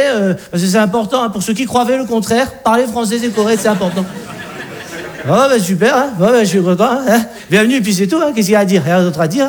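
lightly voiced Alsatian father-in-law; a touch of awkward provincial dad. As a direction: play the Alsatian father justifying himself. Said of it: "Le père alsacien nous aperçoit".

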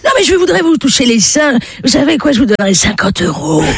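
high, fast, pleading bargaining; insistent begging. Acted. Old man insists, raises offer. (supplication pressante et aiguë)

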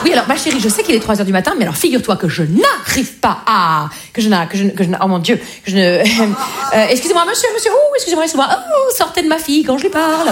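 mother voice. Retold or imitated. Mother's speech to daughter.

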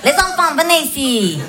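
put-on father's Asian-accented threat, counting slowly; mock the dad's accent, deadpan; imitating father. Father calling the children to threaten them, mock Asian accent. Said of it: "une autre technique à lui".

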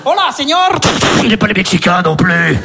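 low dramatic trailer narration; cop film narrator. Acted. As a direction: intone it like a gritty cop movie voiceover. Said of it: "film de flic".

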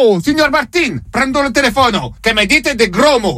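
mock-offended Italian complaining in his accent; Martino Martinelli. Italian caller complains about rude words, mildly offended, lightly put-on Italian accent. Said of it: "Signor Martino Martinelli?".

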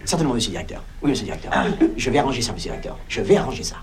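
ordinary talk

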